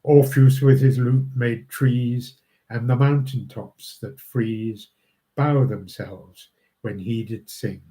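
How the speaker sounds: measured reading of verse, phrase by phrase; understated recital of Shakespeare verse; poem recitation. Acted. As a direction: read the poem aloud, pausing at each line end. Reads a second poem.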